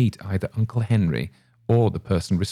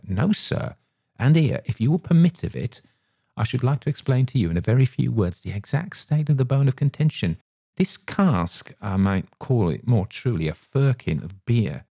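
higher, pressing landlord still worked up; heated innkeeper; 6 semitones higher than usual. A narrator's reading. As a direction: insist on explaining the grievance. Landlord explains the bone of contention.

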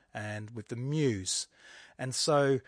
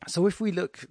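higher and louder restart; emphatic restart; 6 semitones higher, 5 dB louder than usual. Real, not acted. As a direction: launch the phrase again, pushing it up and out. Teacher restarts her sentence.

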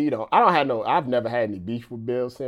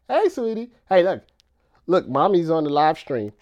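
higher, louder call to a pet; puppy talk; 6 semitones higher, 5 dB louder than usual. Real, not acted. Owner shows puppy that mommy's on stream, high puppy talk. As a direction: call sweetly to a puppy, pitched up.

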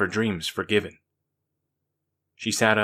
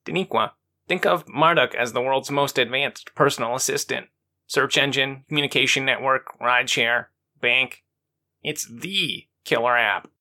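enthusiastic; 3 semitones higher than usual. Acted. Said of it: "Earl enthusiastically explained".

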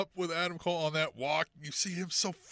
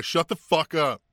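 professional way; 4 semitones lower, 3 dB louder, slower than usual. Retold or imitated. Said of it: "telling him in a professional way".

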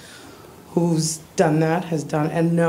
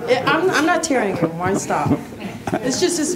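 laughing denial; 6 semitones higher than usual. Real, not acted. Denies tearing up while laughing.

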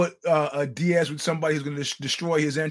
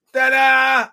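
excited; 9 semitones higher, 10 dB louder than usual. Real, not acted. Announcing a surprise.

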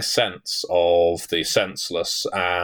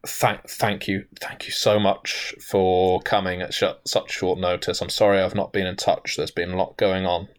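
shaky whisper. Acted. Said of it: "whispers with a shaky voice".

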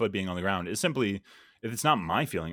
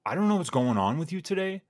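frustrated scolding; 4 semitones higher, 3 dB louder, faster than usual. Retold or imitated. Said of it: "she was really frustrated".

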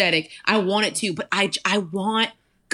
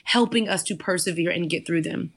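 spoken prayer; 3 semitones lower than usual. Acted. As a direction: pray over the listeners. Prays aloud over the listeners.

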